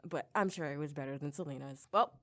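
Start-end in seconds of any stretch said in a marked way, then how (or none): 1.9-2.1 sassy farewell. Pretend. Sassy dismissive catchphrase.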